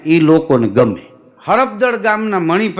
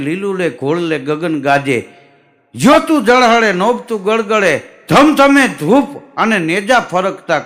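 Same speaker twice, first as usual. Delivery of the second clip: devotional verse recital. Acted. Storyteller reciting a bhajan of Satadhar to the audience. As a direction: intone the praise of Pir Gigo like a folk bhajan.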